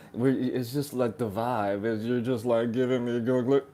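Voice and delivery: lightly imitated teen talk; mocking teenager. Man parodying relationship talk to call it stupid, mock teenager. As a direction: put on a slightly silly teenage voice. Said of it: "You sound like a teenager".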